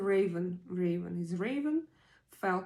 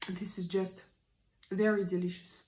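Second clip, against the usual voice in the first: whispering. Real, not acted. Eating, whispered aside.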